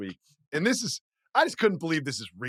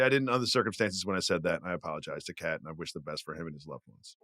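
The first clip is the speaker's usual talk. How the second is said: sincere apology; 13 semitones lower, 7 dB quieter than usual. Shown as a demonstration. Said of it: "and say".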